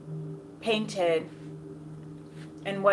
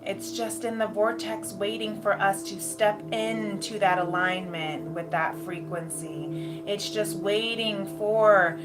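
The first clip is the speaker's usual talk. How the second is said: airy breathy mystical healer. Acted. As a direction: guide them gently into bliss, unhurried. Channels a guided meditation with music.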